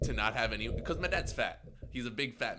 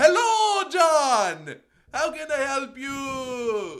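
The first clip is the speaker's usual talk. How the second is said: high, booming, very loud shrill shout, "you" stretched; 14 semitones higher, 11 dB louder than usual. Speaker imitates their dad answering a call in a taxi, retelling his loud phone yell. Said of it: "He thinks he has to yell at them".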